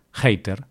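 hater starting with a harsh Spanish J, jater. Shown as a demonstration. Telling the podcast listeners how Spaniards say it, hater with a J. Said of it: "decimos J".

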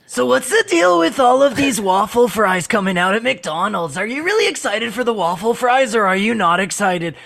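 a hint of Ryan Long interviewing; Ryan Long interviewer. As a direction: ask it like a keen street interviewer. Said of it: "do Ryan Long interviewing".

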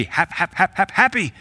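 stammered hap-hap-hap, then happy jumps up high; mocking the forced cheer of the faith movement. Preacher mocking forced happiness, stuttering up to a squeal.

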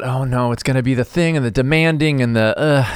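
lightly voiced diva worry; imitating a worried groan at a demanding star; half-hearted mock fret about a demanding celebrity; mock dread. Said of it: "I thought".

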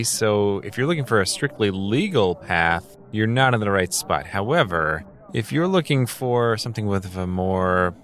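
ordinary talk

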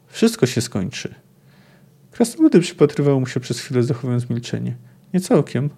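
expressive book reading, voicing the dialogue; reading a novel aloud. Lecturer reading a Sapkowski quote to listeners, in storyteller narration. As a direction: read the passage like a storyteller. Reads dwarves' tavern dialogue.

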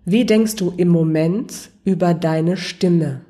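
slow, with each word given room to sink in; slow, reflective question. Shown as a demonstration. Coach repeats the question for the listener to reflect, slowly. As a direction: ask it slowly so it lingers. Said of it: "Lass die Frage mal gerne kurz sacken".

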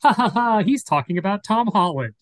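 mock audience laugh. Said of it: "the whole audience is like".

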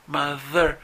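"mother" drawn out with a buzzing voiced th; slow demo. Shown as a demonstration. Teacher repeats mother slowly for students. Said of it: "Si lo escuchamos lento es mother".

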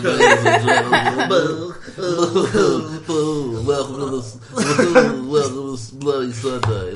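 lightly hammed-up podcast host intro; Mike Butterbach impression. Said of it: "Mike Butterbach impression".

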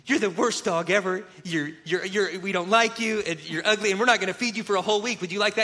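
mean words said sweetly; mock nice tone. Boys teasing the family dog, mock nice tone. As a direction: sweet-talk the dog while insulting it. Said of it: "they'll say it in a nice tone".

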